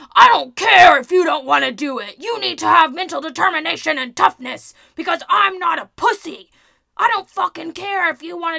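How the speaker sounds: very loud, forceful, intense tough-sounding rant. Showing how a man talks on the podcast: imitating his intense manner. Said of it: "he has a incredibly strong, intense personality... it sounds a little bit like this".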